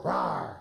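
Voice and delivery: low playful roar; wolf roar. Shown as a demonstration. Coach prompting the child wolf again, roaring. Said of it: "Wolf, can you go".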